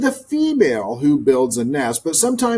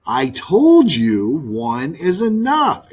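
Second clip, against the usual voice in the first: slow, emphatic, stress on told; insisting; 2 semitones higher, slower than usual. Acted. Maggie insisting to the dove, slow and emphatic. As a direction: lean hard on told. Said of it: "insisted Maggie".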